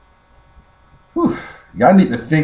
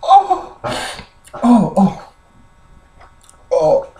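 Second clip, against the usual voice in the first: laughing oh; 9 semitones higher, slower than usual. Real, not acted. Recovering from laughing fit.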